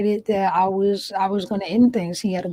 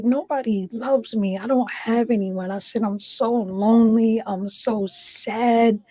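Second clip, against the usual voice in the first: tearful; crying. Real, not acted. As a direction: speak through real tears. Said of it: "I'm crying again now".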